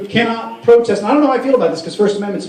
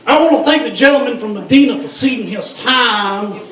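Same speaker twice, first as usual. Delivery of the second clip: higher-pitched debater in a put-on Arabic accent; mock Arabic accent; 4 semitones higher than usual. Lawmaker thanking a colleague in debate, mock Arabic accent. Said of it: "That's my Arabic accent".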